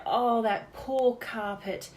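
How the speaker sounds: slow, hushed mock sympathy for a carpet; mock-tragic dad, slow and trailing into a whisper; Dad's mock pity. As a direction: play the silly dad pitying a lost carpet, drawn out. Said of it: "and he'd say".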